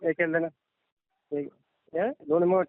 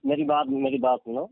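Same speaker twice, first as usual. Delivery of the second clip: higher, urgent plea to be heard; agitated pleading; 7 semitones higher than usual. Real, not acted. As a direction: cut in and beg him to listen. Agent cutting in, pleading to listen.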